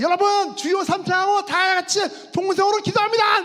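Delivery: high, full-force shouted call to prayer; booming revival pastor shout, pitched high; pastor leading prayer. Retold or imitated. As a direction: imitate a fired-up pastor rallying the congregation. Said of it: "교회에서 목사님이".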